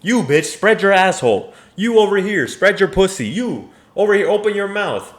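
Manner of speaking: bellowed mock orders to imaginary women; hammed-up bossy shout. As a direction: shout the orders like a fantasy king. Escalating mock fantasy commands.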